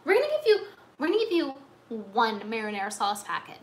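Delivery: mock generous staff. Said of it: "and then they're like".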